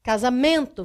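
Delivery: "Casamento" weighted on the penultimate MEN; stress on MEN. Shown as a demonstration. Teacher recalls the paroxytone example, MEN stressed in "Casamento". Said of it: "penúltima sílaba é a mais forte".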